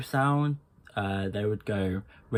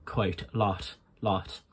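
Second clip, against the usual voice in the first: Irish accent with breathy final T; 4 dB quieter, slower than usual. Shown as a demonstration. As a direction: let each final T go to breath, Irish style. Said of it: "But with Irish".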